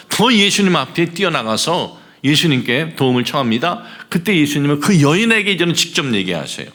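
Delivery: high-pitched, insistent exposition; fervent preaching. Acted. Preacher explaining that the woman would not stop, fervent preaching. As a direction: drive the point home to the congregation.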